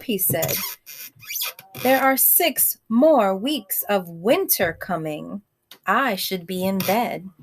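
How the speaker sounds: gentle read-aloud voice; storybook reading to a class; story narration. A narrator's reading. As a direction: read it like a bedtime story for children. Reads picture book to kids.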